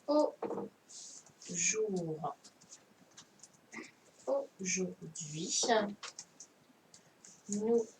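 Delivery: slow dictation, word by word with long pauses; dictation reading. Shown as a demonstration. Teacher dictating a sentence to pupils, slowly word by word. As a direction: read each word out for pupils to write. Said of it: "donc, la dictée".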